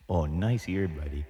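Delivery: close-mic, in your ear; right in your ear. Acted. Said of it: "in real close".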